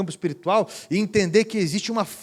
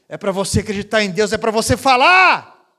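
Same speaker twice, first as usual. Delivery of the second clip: insist, growing louder; forceful order; 2 semitones higher, 7 dB louder than usual. Retold or imitated. Pastor commands.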